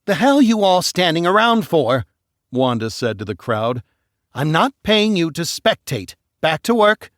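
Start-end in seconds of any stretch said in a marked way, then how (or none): 0.1-2.1 higher, louder barked demand; angry yell. Acted. Wanda yelling at the idle crowd, angry. 4.3-7.1 higher, louder barked demand; angry yell. Acted. Wanda yelling at the idle crowd, angry. Boss orders crowd back.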